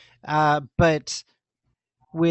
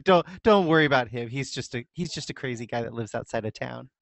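dismissive villager; 3 semitones lower, faster than usual. Pretend. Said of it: "everybody just kinda dismisses him".

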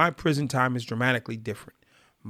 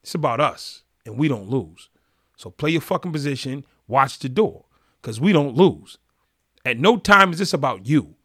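angry scolding; 5 dB louder than usual. Retold or imitated. Gang leader chewing out a member at the lunch table, loud fury. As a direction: lay down the law, furious.

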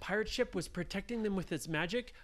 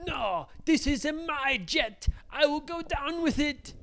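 high, louder, defiant captain; proudly refuse, slowing on the first words; stubborn; 9 semitones higher, 5 dB louder than usual. Acted. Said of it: "he said".

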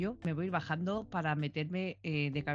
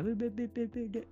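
higher-pitched string of "be, be, be"; imitated babble; 5 semitones higher than usual. Host retelling how sister started on TikTok, imitated babble.

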